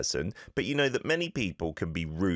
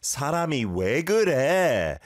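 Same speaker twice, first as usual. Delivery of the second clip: exasperated; 6 semitones higher, 5 dB louder, faster than usual. Shown as a demonstration. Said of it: "You can hear the exasperation in your voice".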